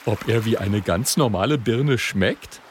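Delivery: innocent hungry question; a greedy little porcupine; Oskar's voice. A narrator's reading. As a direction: wonder with an empty stomach.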